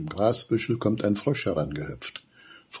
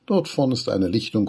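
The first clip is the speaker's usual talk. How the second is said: calling down; 5 semitones higher, 4 dB louder than usual. Acted. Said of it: "ruft Flinki Eichhorn von oben".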